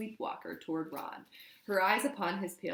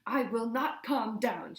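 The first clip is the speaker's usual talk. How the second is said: screamed; 5 semitones higher, 5 dB louder, slower than usual. A narrator's reading. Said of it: "she screamed".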